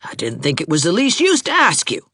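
high, indignant tirade; heated accusation. A narrator's reading. Heated lovers' quarrel, accusing.

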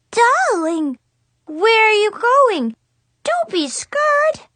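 high, loud fake French accent of a little girl; a kid hamming up a French salon hostess. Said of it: "awful fake French accent".

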